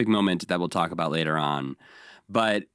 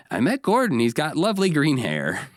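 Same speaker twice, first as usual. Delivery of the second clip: high, lightly imitated naive puppet character; Snuffy; 7 semitones higher than usual. Host retells Snuffy's news to Big Bird, high character voice. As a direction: pitch it up, innocently reporting a meeting. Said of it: "and even tells Big Bird".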